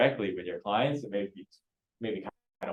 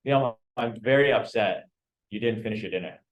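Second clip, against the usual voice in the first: mock upset parent; 3 dB louder than usual. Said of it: "we do example".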